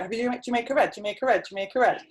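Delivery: put-on customer asking in a Geordie accent. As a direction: ask it in a broad Geordie accent. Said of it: "which is my, um, Geordie accent".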